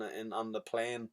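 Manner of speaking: low, soft attempt at Greek; badly faked, halting Greek accent; mumbled excuse in would-be Greek. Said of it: "I can't do a Greek accent".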